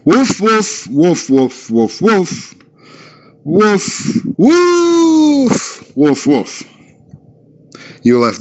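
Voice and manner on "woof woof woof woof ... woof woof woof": mock dog barking. Dog quoted to the police, hammed-up barking. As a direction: bark it out like an angry chained dog. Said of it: "and the dog said, and I quote".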